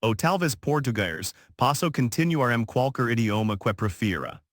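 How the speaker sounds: smooth, fluent Portuguese; easy native-sounding Portuguese. Acted. Waitress offers Portuguese to silenced diner. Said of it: "she switched to Portuguese".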